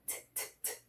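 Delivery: "T, t, t" as bare puffs of the consonant; voiceless little T bursts, "T, t, t"; stop T alone. Shown as a demonstration. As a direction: isolate the T sound with no voice, spaced out. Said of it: "fazer esse som mais forte".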